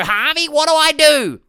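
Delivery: high, loud helpless whine; hammed-up panicked plea for help; mock helpless client. Coach mocking clients asking him for help, high helpless whine. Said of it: "That's my impression of you guys".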